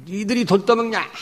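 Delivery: mock scolding question. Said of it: "이러고 있어요".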